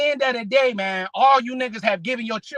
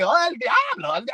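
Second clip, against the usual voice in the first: put-on kids parroting parents; slower than usual. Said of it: "all them niggas say".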